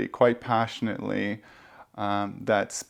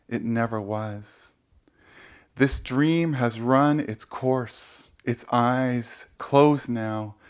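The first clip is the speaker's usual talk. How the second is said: poetry reading. Acted. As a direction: let each phrase land, with pauses between. Reads own poem aloud again.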